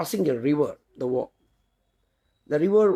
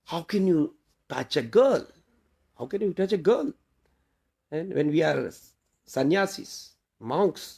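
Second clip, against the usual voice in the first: upset monk; 3 semitones higher than usual. Retold or imitated. Upset monk rebukes his fellow for carrying a girl, mildly indignant. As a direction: retell a monk's upset rebuke with mild reproach. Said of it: "was very upset".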